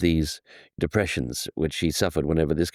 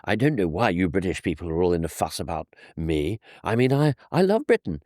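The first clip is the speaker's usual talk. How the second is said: plangent, wounded plea climbing much higher in pitch; aggrieved ruler pleading to be appreciated, voice rising high; Kaiser Wilhelm the Second; 7 semitones higher than usual. Retold or imitated. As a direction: protest in a high, plaintive put-on accent. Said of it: "That mixture of the plangent tones".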